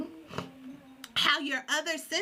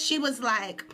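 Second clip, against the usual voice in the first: ordinary talk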